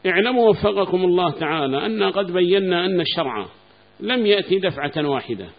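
loud, formal reading of the book's text. Acted. Sheikh reads the author's text aloud to his students, loud and formal. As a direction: declaim the author's words to the class.

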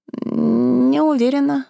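acted groan after surgery; moaning. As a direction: moan weakly waking up. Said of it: "простонала Василиса".

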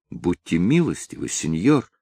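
soft, begging, a touch of fear; frightened plea. Acted. Daughter begs the drover to spare her father, softly. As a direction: plead quietly for mercy. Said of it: "вдруг вся задрожав от страха".

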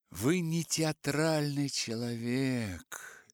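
slow, condescending with a smile; insulting smile. Acted. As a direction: look down on him smiling. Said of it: "с оскорбительной улыбкой".

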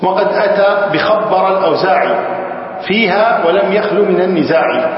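measured, slow chanting of the poem line; slow verse recital. Shown as a demonstration. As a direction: recite the verse deliberately, stretching each word. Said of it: "reciting the verse slowly". (تلاوة بطيئة متأنية لبيت الشعر)

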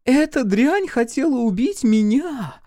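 very high, emphatic outburst; hysterical accusation. A narrator's reading. Chloe blames the maid for Dorothy's death, hysterical accusation. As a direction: hurl the accusation with rising outrage.

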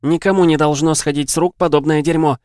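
loud and high, spitting anger; furious shout. Acted. Viv shouting her fury at the Catcher, loud and high. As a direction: let the rage burst out.

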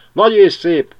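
very high, loud cry of many sparrows; verebek kiáltása. A narrator's reading. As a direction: shout it out as a whole flock. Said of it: "kiáltotta utána száz veréb". (száz veréb kiáltja, magasan és hangosan)

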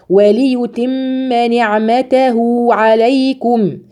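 slow recitation. Shown as a demonstration. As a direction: recite slowly. Recites the verse. (تلاوة بطيئة)

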